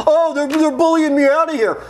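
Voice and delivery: whiny mocking complaint. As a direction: imitate a crybaby whining.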